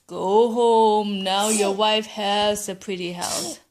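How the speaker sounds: fish granting wish. Acted.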